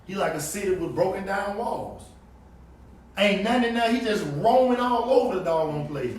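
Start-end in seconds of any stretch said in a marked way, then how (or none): 3.2-6.2 preaching louder. Acted. Preacher driving home the verse.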